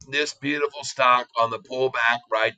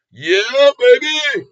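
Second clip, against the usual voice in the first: excited whoop; 9 semitones higher, 8 dB louder, much slower than usual. Real, not acted. Celebrating the stock move.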